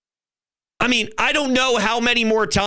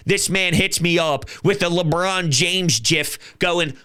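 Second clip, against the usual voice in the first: normal talking voice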